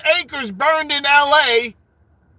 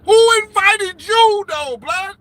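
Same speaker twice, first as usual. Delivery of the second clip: slow, louder, higher mock challenge; mock indignant; 4 semitones higher, 4 dB louder than usual. Host grilling a party crasher, slow mock challenge. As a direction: draw it out like a bouncer.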